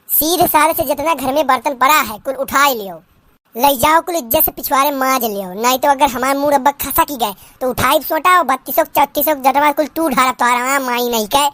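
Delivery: put-on old village mother-in-law scolding in dialect; lightly voiced rustic saas, scolding; nagging mother-in-law.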